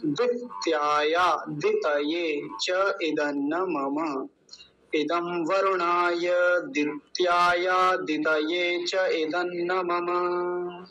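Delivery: slow, measured chant of the full line; slow Vedic recitation; mantra recitation. Shown as a demonstration. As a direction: recite the mantra slowly and reverently. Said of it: "ऐसा इसका उच्चारण होगा पूरे मंत्र का".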